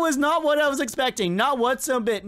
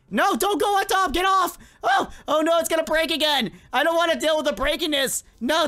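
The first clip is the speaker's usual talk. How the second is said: panicked yelling; 5 semitones higher than usual. Real, not acted. Panicking as a player climbs on.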